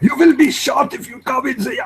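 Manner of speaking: put-on German accent, pitched very high. Asked by another speaker to talk like the german, doing a mock german accent. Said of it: "What if you talk like the German?".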